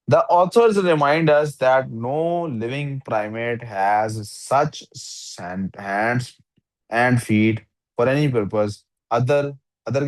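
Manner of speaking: slow, word-by-word reading aloud; slow test-sentence reading. Shown as a demonstration. Teacher reading a test sentence to the student, slow and deliberate. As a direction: read each word out slowly, testing it.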